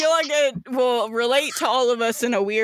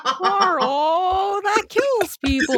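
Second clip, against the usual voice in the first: high, outraged scolding; mock scolding; 8 semitones higher, much slower than usual. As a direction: scold Carl in a raised voice.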